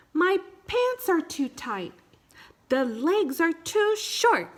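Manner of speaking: delighted discovery. Acted. Boy finds clothes too small.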